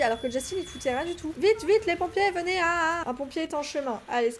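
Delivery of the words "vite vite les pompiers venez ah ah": high, loud playful cry for help; hammed-up urgent shouting; mock panic. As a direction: call out in pretend emergency. Calling firefighters to game fire.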